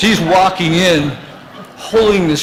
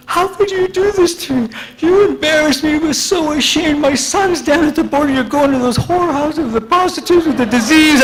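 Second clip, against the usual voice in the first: much higher voice of a wailing, scolding mother; scolding mom; 11 semitones higher than usual. Retold or imitated. Mom berating her son on the drive home, in a much higher voice. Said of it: "my mom starts".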